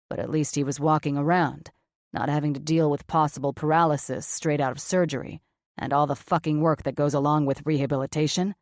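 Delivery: blunt surgeon, low and flat. Acted. Cameron's voice, lower.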